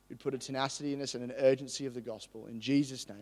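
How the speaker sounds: subdued, even public prayer; earnest prayer. Real, not acted. Preacher praying for everyone here before the message, earnest prayer. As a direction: pray softly and steadily over the congregation.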